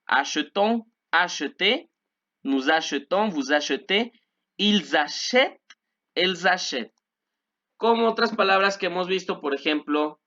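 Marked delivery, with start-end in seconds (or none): 0.1-1.9 "Achetons" and "acheté" with middle E as eu; careful a-sheu-TON, a-sheu-TÉ for "Achetons", "acheté"; muted E. Shown as a demonstration. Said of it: "Ya no pronunció la E, sino E". 2.4-6.9 "achetons" with eu, "achètent" with open E; teacher's careful "achetez" and "achètent", linking the Z; French pronunciation demo. Shown as a demonstration. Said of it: "Vean la pronunciación".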